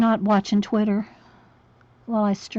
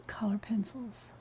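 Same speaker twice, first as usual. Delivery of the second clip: whispering; 10 dB quieter than usual. Real, not acted. Mutters while painting.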